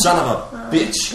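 slow, loud drawn-out curse; mock angry curse. Friend imitating the angry man's swearing, slow and loud. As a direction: savour each word of the swear. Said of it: "Han siger det så godt".

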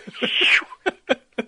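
loud, high puffing cartoon laugh; breathy burst of cartoon character noise; cartoon chase noise. Shown as a demonstration. Bulldog chasing off the duck's pursuer, loud cartoon huffing. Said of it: "it goes like this".

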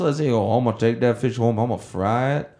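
amateur imitation of a Cajun fisherman; attempted Cajun accent. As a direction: try on a light Cajun accent. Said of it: "I can't do a good Cajun accent".

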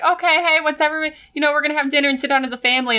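mock-casual parent after a quarrel; imagined family-dinner peacekeeper. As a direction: gather the family, voice lifted. Imagines awkward family after the game.

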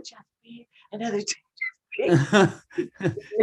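teasing sultry murmur; breathy joke seduction, half-hearted; mock sexy voice. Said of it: "doing it all sexy as a joke".

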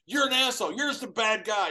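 high, loud mock scolding; imitating Kurt, scolding. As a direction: play the partner telling him off. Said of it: "He goes".

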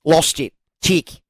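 a light Aussie twang, mate; Australian accent. Pretend. Reading Ned's tick list to cohost in Australian accent. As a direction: lay on a broad Australian accent. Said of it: "Can you do it in an Australian accent?".

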